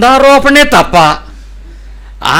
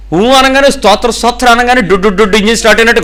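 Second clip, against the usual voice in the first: lightly imitated babbling prayer, higher; mock praying; 4 semitones higher than usual. Pastor mocking showy worshippers, with a hammed-up prayer babble. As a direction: mimic worshippers revving up their prayer like an engine. Mocking how some people pray.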